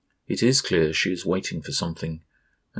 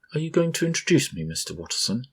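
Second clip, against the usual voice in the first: put-on high, bright child princess voice; a little girl playing grand lady; girl's voice; 8 semitones higher, faster than usual. A narrator's reading. Little princess asks her father's guest formally, high child voice.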